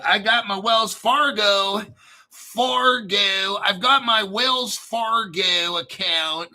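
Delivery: lightly done Southern drawl on Wells Fargo; a hint of a Southern American accent, stretching Fargo. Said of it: "was that your Southern accent".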